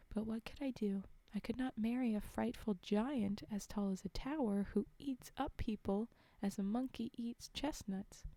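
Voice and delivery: measured fairy-tale reading voice; clearly projected storytelling; story narration. A narrator's reading. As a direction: read it aloud like a storybook. Reads a fairy tale aloud.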